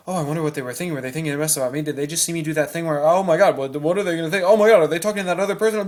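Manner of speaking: mock panicked inner voice, building; racing anxious thoughts. The mind reacting to a funny look, worried rush. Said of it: "your mind immediately starts going".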